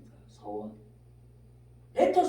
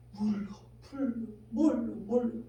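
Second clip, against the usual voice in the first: whispered. Acted. Preacher whispers repeated words.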